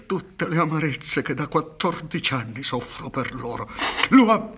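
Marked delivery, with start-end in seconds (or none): 4.1-4.5 angry vow. Acted. Son swears revenge.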